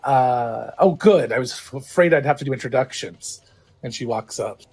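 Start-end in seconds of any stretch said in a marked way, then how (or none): 0.8-3.4 pushy half-orc. Acted. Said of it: "very pushy half-orc female voice".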